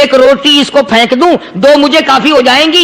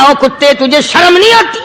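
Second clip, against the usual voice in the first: غصے میں ڈانٹ; angry rebuke. Retold or imitated. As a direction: scold the dog in mock fury. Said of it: "غصے میں آ گیا اور کہنے لگا".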